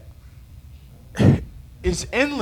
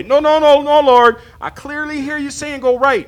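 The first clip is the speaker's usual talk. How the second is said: higher and louder insisting, mock stubborn; mock stubborn protest; 6 semitones higher, 6 dB louder than usual. Preacher acting himself arguing with God, loud mock insistence. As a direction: argue back at God, hammed-up.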